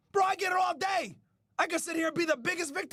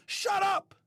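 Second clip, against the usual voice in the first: pretend scolding. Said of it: "tell these motherfuckers".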